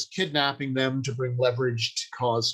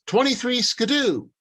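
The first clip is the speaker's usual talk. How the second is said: high, mock twenties slang tossed off; old-timey slang quote; 10 semitones higher than usual. Quoting a character's dated slang in a high mock voice. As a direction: pitch it up like a fusty old-timer. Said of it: "Like if somebody says".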